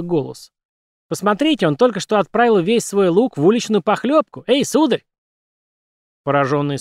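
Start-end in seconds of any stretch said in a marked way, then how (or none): 1.1-5.0 high cartoon squeak; squeaky puppet voice. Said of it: "пропищал странный, высокий, как у Микки Мауса".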